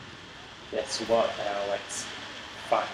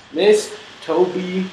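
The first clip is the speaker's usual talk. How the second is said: excited shout; 7 semitones higher, 8 dB louder than usual. Real, not acted. Gamer gloating that teammate Toby got killed, loud taunting shout. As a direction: draw out the jeer with delight.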